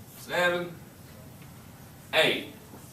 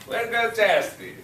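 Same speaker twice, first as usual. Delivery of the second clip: excited praise; 4 semitones higher than usual. Real, not acted. Teacher cheers Chastity for the right answer, excited. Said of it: "Thank you".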